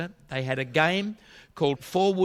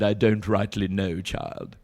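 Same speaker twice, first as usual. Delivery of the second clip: put-on coy old lady; 4 semitones lower, slower than usual. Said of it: "the old lady's being very coy".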